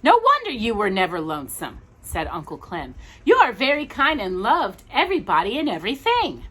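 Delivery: gentle storybook reading; reading to children. Acted. Parent reading Raggedy Andy to a child, gentle storybook voice. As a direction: tell the tale to a small listener.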